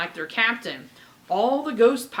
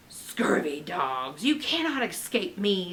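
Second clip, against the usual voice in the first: shouting pirate ghost; 2 semitones lower than usual. Acted. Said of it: "the ghost of John Lafitte shouted".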